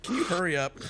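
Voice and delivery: half-laughing, a jokey hurry-up; laughing mock plea. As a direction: giggle through the complaint. Joke about faking shakes.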